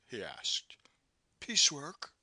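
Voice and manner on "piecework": quick, matter-of-fact woman's voice; prompt answer. A narrator's reading. Maude answering the captain promptly. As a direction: answer without hesitation. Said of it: "she answered promptly".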